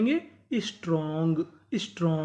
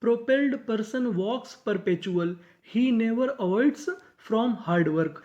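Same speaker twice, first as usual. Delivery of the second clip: very slow, word by word sentence read; teacher dictating the whole sentence slowly; slow model reading; 2 semitones higher, much slower than usual. Shown as a demonstration. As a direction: read it out slowly for learners to follow. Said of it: "तो पूरा sentence क्या बना?".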